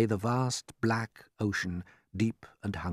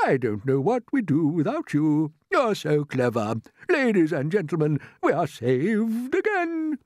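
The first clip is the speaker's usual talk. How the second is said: loud, raised, stately rapture; admiring old grasshopper; 8 semitones higher, 5 dB louder than usual. Acted. Grasshopper praises James and announces rescue, jubilant. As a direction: build to a slow, high proclamation.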